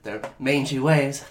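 soft letter voice. Acted. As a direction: read it like a frail loving wife. Reading letter from dying wife.

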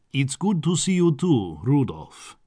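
warm greeting. Acted. Count greeting his excitable cousin, warmly. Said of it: "said Sandor warmly".

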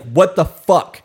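slow, loud exasperated what the fuck; mock exasperated outburst. Imitating her own outburst at a pen on the floor. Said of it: "be like".

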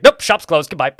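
abrupt mock refusal; curt dismissal. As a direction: imitate an offended shopkeeper shutting the customer out. Acting out shopkeeper refusing service.

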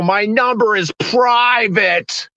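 slow, drawn-out insistence; mock insistence. Slowly insisting to the cashier at checkout. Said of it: "I have to go".

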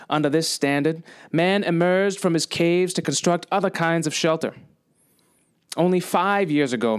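lightly voiced presidential oratory; resume the speech with measured pauses; JFK speech recital. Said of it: "I want to recite a chunk of J F K's speech".

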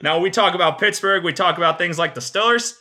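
put-on lightly done Pittsburgh accent; a hint of Pittsburgh yinzer. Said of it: "I'm gonna do a Pittsburgh accent the whole time".

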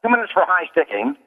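high-pitched arena PA penalty announcer; sports announcing voice. Shown as a demonstration. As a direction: rattle off each penalty like a Boston Garden announcer, pitch lifted. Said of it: "in my sports announcing voice".

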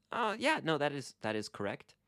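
bright high Oh of realizing, then settling; suddenly remembering the answer; sudden realization. Shown as a demonstration. Teacher acting out a student realizing, surprised. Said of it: "when you realize".

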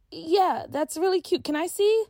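a hint of a schoolgirl asking her friend; Tia, girl voice. A narrator's reading. Tia asks again.

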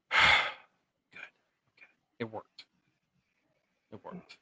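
a soft unvoiced sigh of relief; relieved whisper. Ellie thinks Sam is cured, whispers in relief. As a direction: breathe it out in a hushed whisper.

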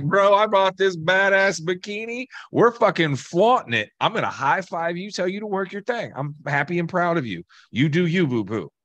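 hyped-up cheering. Acted. Collector bragging about a bikini and hyping a pal, excited. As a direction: act out gushing encouragement for a pal. Acted hype-up from tattoo client's friend.

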